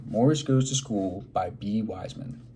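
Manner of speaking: lively, expressive read-aloud for a class; reading to children. Acted. Teacher reading a picture book aloud to her class, lively and expressive. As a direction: draw the kids into the story.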